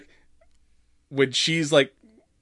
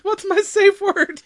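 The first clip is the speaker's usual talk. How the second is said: high, slow panicked yell; panicked shout; 6 dB louder, slower than usual. Retold or imitated. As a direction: drag it out in a panic. Repeated, louder, slower.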